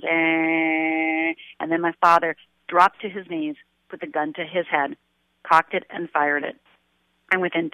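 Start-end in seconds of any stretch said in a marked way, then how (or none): 0.0-1.3 car horn drone. Retold or imitated. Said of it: "all I heard was".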